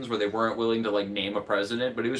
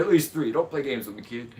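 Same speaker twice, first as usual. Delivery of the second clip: Biden quote. Retold or imitated. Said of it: "It's a good Biden quote".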